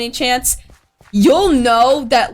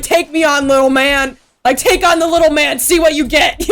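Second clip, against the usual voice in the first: mock cocky taunt; 3 semitones higher than usual. Taunting Freddy in retold dream.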